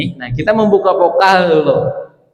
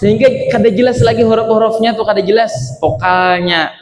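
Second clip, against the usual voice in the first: berlebihan; 5 semitones higher than usual. Shown as a demonstration. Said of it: "terlalu berlebihan".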